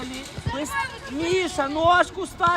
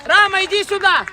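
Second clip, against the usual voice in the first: yelling from the sidelines; 4 dB louder than usual. Real, not acted. Coach calling players.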